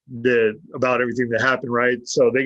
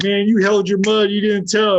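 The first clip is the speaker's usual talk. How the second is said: higher-pitched admiring exclamation; retold impressed greeting; 7 semitones higher, 3 dB louder than usual. Inmates greet him back on the yard, impressed. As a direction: imitate the impressed yard crowd.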